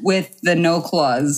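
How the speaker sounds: slow, lightly put-on Boston accent. Shown as a demonstration. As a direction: stretch it out like a Bostonian. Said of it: "in the Boston accent".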